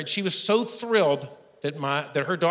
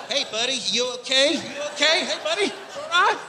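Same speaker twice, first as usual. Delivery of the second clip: high-pitched, checking on an unresponsive man; rising, anxious check-in, acted out; worried bystander; 8 semitones higher than usual. Acted trail guide checking on sleeper.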